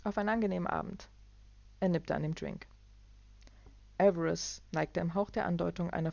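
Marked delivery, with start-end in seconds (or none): 0.0-1.1 higher, quick echo of the toast; the young assistant raising his glass, pitched up; Fleming answers the toast in a higher voice; assistant's toast. Acted. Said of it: "Der Assistent stieß mit ihm an".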